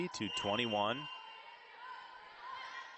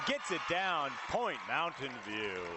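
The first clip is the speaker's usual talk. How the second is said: sportscaster's burst of excitement; excited play-by-play; 2 semitones higher than usual. Real, not acted. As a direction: react as the ball hits the floor. Live call saving set point.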